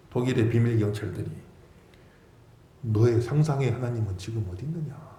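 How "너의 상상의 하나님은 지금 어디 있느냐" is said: lightly voiced sneering secret police; a hint of a scornful interrogator; mocking interrogator. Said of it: "이렇게 막 조롱하는".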